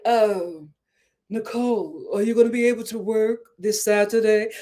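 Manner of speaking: soft, sweet-as-pie coworker voice; imitating a really sweet manager asking a favor; gently ask, all sweetness. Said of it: "this really sweet person".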